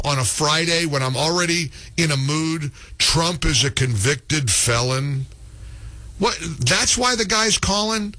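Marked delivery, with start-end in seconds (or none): 3.0-5.2 slow, flat disbelief. Real, not acted. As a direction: drag it out incredulously. Host repeats caller in disbelief.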